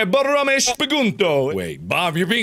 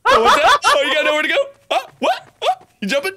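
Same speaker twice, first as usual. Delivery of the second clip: high, teasing singsong; mock baby talk; 11 semitones higher, 4 dB louder, faster than usual. Gamer teasing a trapped opponent in high mock baby talk. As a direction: coo at the cornered player like a toddler. Mocking cornered player.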